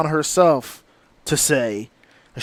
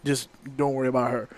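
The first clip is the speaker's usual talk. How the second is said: soothing aside; 4 semitones lower, 7 dB quieter than usual. Retold or imitated. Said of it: "so they're like".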